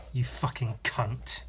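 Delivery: slow, hushed whisper; whispered insult. Pretend. Mock-insulting himself by name, slow whisper. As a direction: breathe it out slowly with mock scorn.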